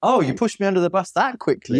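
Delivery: high, stung disbelief; hurt disbelief. Retold or imitated. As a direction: act betrayed and surprised. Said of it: "something happens and you go".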